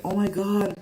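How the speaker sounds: high, gushing imitation of admiring strangers; gushing Canadians. Mother mimicking Canadians praising her daughter, high and gushing. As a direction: coo over the pretty child. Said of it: "they look at her and I'm like".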